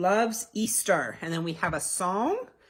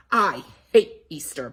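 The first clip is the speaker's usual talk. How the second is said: crying; 5 semitones lower, 6 dB louder than usual. Acted. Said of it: "Betty Bunny cried".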